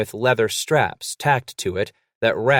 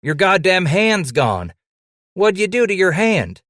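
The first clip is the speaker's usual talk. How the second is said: shocked alarm; 10 semitones higher, 6 dB louder than usual. Acted. Shocked at missing hand.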